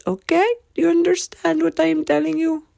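high-pitched insistent check-in; emphatic question. Real, not acted. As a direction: lean in and demand they get it.

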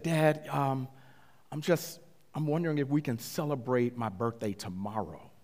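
imitating a nervous son, haltingly; tentative request with uneasy pauses; hesitant, afraid to ask. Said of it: "he was afraid to call me".

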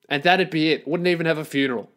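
normal talking voice

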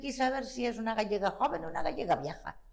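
lightly voiced pedantic lecturing. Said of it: "yo fui bien pedante". (tono pedante, un poco más agudo)

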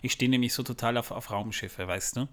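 stoned. Pretend. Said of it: "warum wir so komisch reden".

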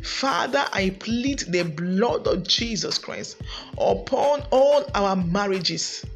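rising, intense praying at full force; fervent prayer. Acted. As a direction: pray it out over the congregation, building. Leads a prayer for marriages.

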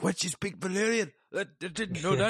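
high, falsetto feigned shock; mock surprise. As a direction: play dumb, wide-eyed. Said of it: "He's like".

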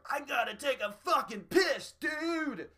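high, loud put-on girlfriend voice; girlfriend's urgent complaint. A girlfriend telling her boyfriend she needs the bathroom, high and loud. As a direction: squeal it like an impatient girlfriend. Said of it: "she's like".

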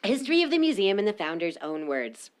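hushed whisper, like a grand documentary opening; whispered title. Acted. Reading the museum title to friends, whispered. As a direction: whisper it like a secret announcement.

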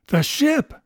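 sharp high burst of surprise; loud, startled storybook cry; astonished exclamation. A narrator's reading. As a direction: exclaim in amazement, pitch leaping up. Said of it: "exclaimed the doctor".

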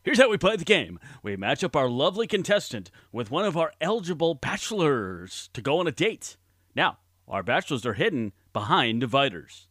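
bright, booming TV host welcome; game show host. Acted.

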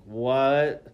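loud, drawn-out retold disbelief; shock. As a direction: stretch it out as if stunned. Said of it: "I'm just such in shock".

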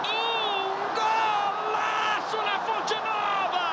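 long, stretched goal shout; explosive goal commentary. Real, not acted. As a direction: drag every syllable out in triumph. Drawn-out goal call.

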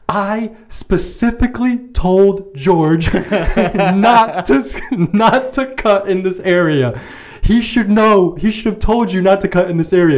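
high-pitched, indignant scolding; imitated furious customer. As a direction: drag out the words in mock outrage, breaking into a laugh. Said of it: "She comes out furious, absolutely furious".

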